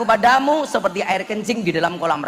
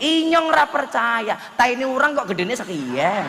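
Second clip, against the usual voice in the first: Ngapak yelling; 6 semitones higher than usual. Retold or imitated. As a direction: cry out like an outraged Tegal man. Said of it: "Orang ngapak langsung teriak-teriak".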